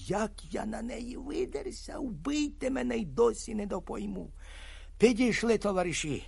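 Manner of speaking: ordinary delivery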